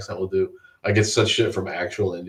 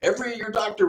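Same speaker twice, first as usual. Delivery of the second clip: mock high voice; 7 dB louder than usual. Mock emphatic voice.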